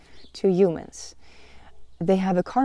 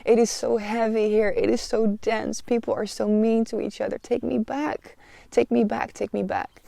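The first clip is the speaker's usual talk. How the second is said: high, pleading cry to go home, tearful and loud at first; retold sobbing plea; 5 semitones higher, 3 dB louder than usual. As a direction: beg to be taken home through tears, then fading. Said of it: "sobbing, sobbing".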